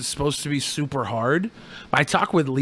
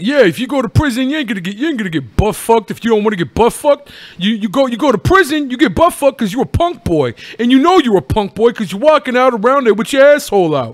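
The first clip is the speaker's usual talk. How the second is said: ex-prisoner impression; 7 semitones higher, 5 dB louder than usual. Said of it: "talking about".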